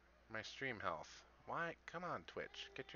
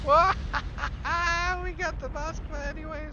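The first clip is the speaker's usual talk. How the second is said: surprised; 7 dB louder than usual. Real, not acted. Surprise kill of the Moskva.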